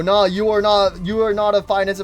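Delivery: loud scolding. Real, not acted. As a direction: call him out, half laughing. Scolding charging Mimic.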